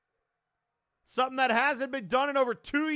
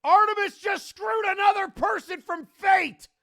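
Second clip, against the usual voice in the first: angry fan shouting; 4 semitones higher, 4 dB louder than usual. Real, not acted. Interference costs the title.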